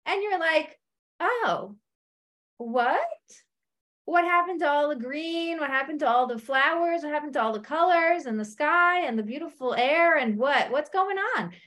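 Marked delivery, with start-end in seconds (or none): 1.2-11.5 dismayed surprise. Retold or imitated. Newcomer dismayed at desert.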